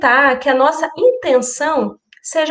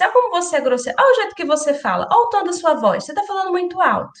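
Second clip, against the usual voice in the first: judgmental criticism. Shown as a demonstration. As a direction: lecture someone as if they are simply rude. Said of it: "Não soa como um julgamento?".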